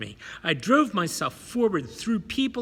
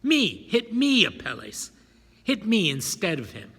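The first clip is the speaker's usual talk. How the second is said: pleading; 4 semitones higher, 4 dB louder than usual. Acted. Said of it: "pleading with him".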